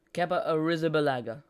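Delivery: "Kepa Arrizabalaga" rolled out loud and carefully; showy Spanish pronunciation. Shown as a demonstration. Commentator boasting of fluent Spanish, "Kepa Arrizabalaga" pronounced with a flourish. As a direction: show off saying "Kepa Arrizabalaga" in one confident sweep. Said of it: "look at that flawless pronunciation".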